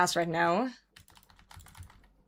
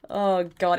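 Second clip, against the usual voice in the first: usual speaking voice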